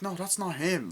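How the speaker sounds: high-pitched imitation of a denial; mock protest. The girl seeing the man hit, high mock protest.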